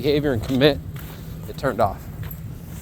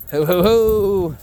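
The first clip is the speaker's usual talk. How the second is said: excited slow hoot; 5 semitones higher, 5 dB louder, slower than usual. Real, not acted. Dog running down the hill.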